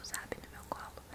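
ordinary talk

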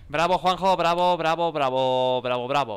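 loud mocking self-applause; loud ironic clapping; sarcastic bravo. Real, not acted. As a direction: cheer yourself on with scorn. Sarcastic applause at own failure.

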